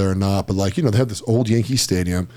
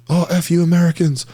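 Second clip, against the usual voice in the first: mock angry rant, higher and louder; retold angry yelling; 7 semitones higher, 4 dB louder than usual. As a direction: imitate a man yelling abuse, raised pitch. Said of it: "just starts yelling at us".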